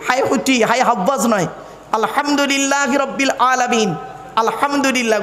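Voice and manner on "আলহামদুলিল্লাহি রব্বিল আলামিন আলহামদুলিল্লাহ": "আলহামদুলিল্লাহ" with h from inside the throat; correct throaty h. Shown as a demonstration. Preacher drilling the prayer words with listeners, throaty h. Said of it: "গলার ভেতর থেকে হে এটা উচ্চারণ করবেন".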